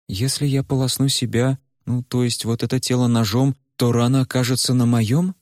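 put-on high, desperate girl's voice; Варя in despair. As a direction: ask in rising panic. Varya asks Куйгарош. (высоким, отчаянным голосом Вари)

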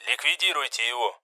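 a cold order over the radio; curt radio order. A narrator's reading. The commander orders the kill over radio, curt. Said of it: "пришёл категоричный приказ".

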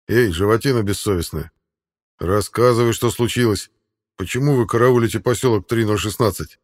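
loud, rough soldier; gruff warrior voice. Acted. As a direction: talk to the beast like a stern warrior. Warrior addressing the beast.

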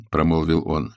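ordinary delivery, nothing marked

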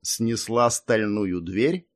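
slow, skeptical question. Acted. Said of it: "вскинул бровь дракон-лорд".

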